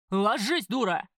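loud, urgent command; sharp yelled order; shouted warning. A narrator's reading. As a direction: shout to get someone down fast. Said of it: "крикнул карась".

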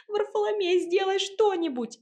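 выше и громче, крик; кричать коту; зов на помощь. A narrator's reading. Зовёт кота на помощь. (отчаянный крик, выше)

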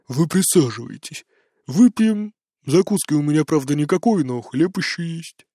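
put-on drunk hospitality. A narrator's reading. Drunk host offering drinks.

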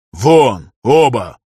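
loud, curt dismissal; sharp order. A narrator's reading. Master Darius orders both slaves out, sharp and loud. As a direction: snap the slaves out of the room. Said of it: "резко сказал он".

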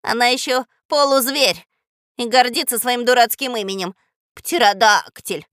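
loud scornful parrot grumble; contemptuous grumbling. Acted. Parrot Zhako mocks the beast's name, grumbling. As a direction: grumble loudly, stretching Птеродактиль with scorn. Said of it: "проворчал он".

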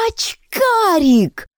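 long drawn-out high yell; wild yell. Acted. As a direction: shriek it out, stretched long. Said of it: "опять заорала диким голосом Яночка".

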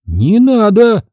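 high, loud, slow refusal; sharp refusal. A narrator's reading. Trader sharply refuses Jamila's help. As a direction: snap it away. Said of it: "Резко отстранилась".

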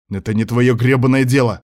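sudden angry outburst; losing temper. Acted. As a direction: snap back hotly. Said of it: "мгновенно вышел из себя Марат".

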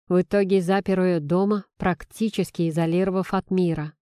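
plain reading voice

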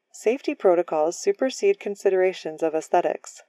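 even, mechanical robot voice. Acted. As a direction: speak like a rule-bound machine. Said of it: "Spoken like a robot".

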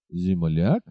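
indignant echo of the word; scornful exclamation. Acted. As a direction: echo Земляк as an insulted question. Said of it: "воскликнул всадник".

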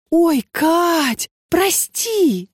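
high, startled yelp of sorry; startled apology. A narrator's reading. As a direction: gasp out an alarmed apology. Lena spills coffee.

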